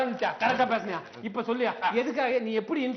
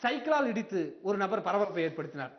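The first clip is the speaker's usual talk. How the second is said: formal newsreader delivery; news read; 3 semitones lower, 3 dB quieter than usual. Acted. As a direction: read it like a TV bulletin.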